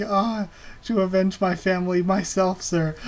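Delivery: put-on a sobbing kid begging for his revenge; crying dwarf boy. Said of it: "and he's crying".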